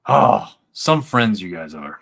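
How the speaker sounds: slow, playful guilt trip with a big sigh; teasing, loudly put-upon disappointment; mock hurt. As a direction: pretend to be let down by your buddies. Teasing co-hosts who ignored his message.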